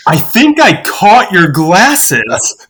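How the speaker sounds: imitating a dad's slow, amazed announcement; slow reveal. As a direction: spell it out slowly, as an astonished punchline. Dad voiced revealing the catch.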